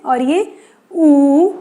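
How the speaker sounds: ऊ held long and slow; long drawn ऊ. Shown as a demonstration. Teacher showing the long ऊ to students, slow and drawn. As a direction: stretch the ऊ out slowly. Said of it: "इसे हम जल्दी उ बोलते हैं".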